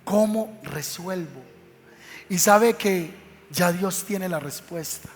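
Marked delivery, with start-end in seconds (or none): 0.0-1.4 worried murmur. Retold or imitated. Widow walking home worried.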